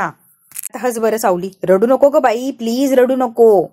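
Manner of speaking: slow, soothing plea to stop crying; husband slowly coaxing his crying wife to smile. Retold or imitated. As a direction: coax her gently into smiling. Sarang coaxes crying Saavli.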